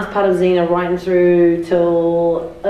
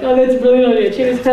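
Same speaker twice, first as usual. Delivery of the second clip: mock enthusiasm; 3 semitones higher, 4 dB louder than usual. Tipsy friend humouring the director's movie pitch, mock enthusiastic. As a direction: cheer the idea on far too eagerly.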